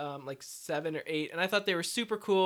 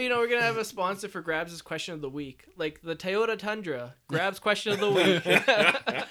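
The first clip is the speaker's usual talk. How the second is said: mock ad read; 4 dB louder than usual. Mock sponsor plug.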